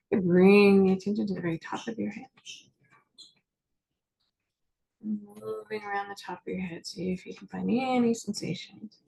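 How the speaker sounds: name each body part unhurriedly, leaving space to feel it; guided body scan. Acted. Therapist guiding listeners through a body scan, calm meditation voice.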